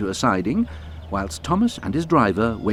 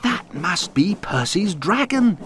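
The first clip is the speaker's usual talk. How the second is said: Thomas voice; 10 semitones higher, slower than usual. A narrator's reading. Thomas thinking aloud in story.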